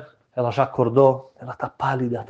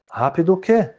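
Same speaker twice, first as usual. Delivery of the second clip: indignant retort; 7 semitones higher than usual. Acted. Rabbi retorts.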